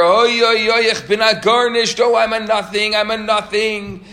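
very high, loud repeated wailing; mock loudest scream. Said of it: "screaming even louder".

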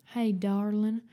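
lightly drawled Western cowboy greeting; cowboy charmer with a Western accent. Acted. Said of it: "with a Western accent".

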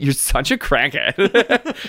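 put-on deadpan Valley Girl voice. Scrolling through her phone normally.

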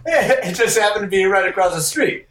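high, laughing through the words. Real, not acted. Friend defending his story to amused listeners, laughing. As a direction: tell it through real laughter.

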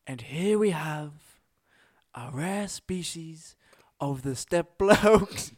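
slow, hushed nature documentary narrator; David Attenborough impression. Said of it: "David Attenborough impression".

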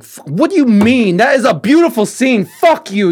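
mock furious rant. Editor retells snapping at a client, loud mock outrage. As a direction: rant as if defending your edit.

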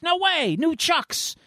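very high, excited squeal; thrilled disbelief. Acted. Storyteller as Mikey opening his gift, high excited delight. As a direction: act out a kid's delight at a gift.

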